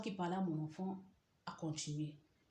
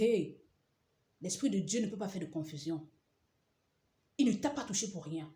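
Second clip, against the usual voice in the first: loud retort; 5 dB louder than usual. Retold or imitated. Husband retorts.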